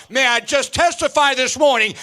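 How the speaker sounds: testify, building the congregation up; preaching at full force. Acted. Preacher testifying God is always there, full preaching fervor.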